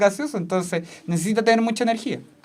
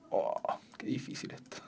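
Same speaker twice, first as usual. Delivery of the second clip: whispered aside; 12 semitones lower, 15 dB quieter than usual. Real, not acted. Aside while writing on board.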